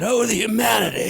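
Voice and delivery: high, wailing newsreel cry; mock radio announcer. Host mocks the Hindenburg reporter, high wailing cry. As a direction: ham up the old Hindenburg reporter. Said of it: "That guy's voice was".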